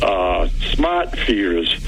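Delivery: smart feeders with a broad Boston "smaht", dropped r; Boston "smaht feedahs", r left out; slow Boston-accented smart feeders. Real, not acted. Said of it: "there was my accent".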